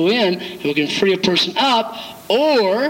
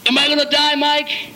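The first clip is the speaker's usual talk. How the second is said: mock panicked counselee; 9 semitones higher than usual. Counselee voiced in retold story.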